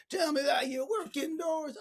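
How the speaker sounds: high, drawn-out put-on accent; slow, high mock questioning; lousy Zig Ziglar. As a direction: stretch it out in a bad motivational-speaker impression. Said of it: "That was a lousy impersonation of Zig Ziglar".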